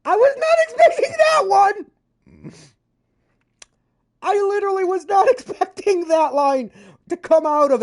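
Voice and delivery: real laughing shout of surprise; laughing disbelief. Real, not acted. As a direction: caught off guard, cracking up. Surprised by the clip's line.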